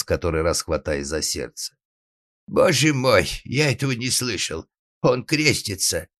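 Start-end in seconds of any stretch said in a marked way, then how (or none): 2.5-6.1 high, appalled exclamation; horrified father. Acted. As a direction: lament to God in dismay. Father horrified, clutching his heart.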